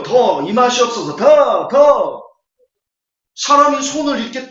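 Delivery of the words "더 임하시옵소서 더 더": mimicking a healer, louder on each 더; hammed-up commanding of the Spirit; mock healer's call. Preacher mocks the healer pulling hands down, a louder mock call. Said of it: "손을 막 이래요".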